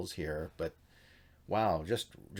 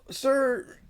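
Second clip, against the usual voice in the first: much higher, louder squeaky alarm; panicky protest; 8 dB louder than usual. Retold or imitated. Sethite begs the attacker, high panicked squeal.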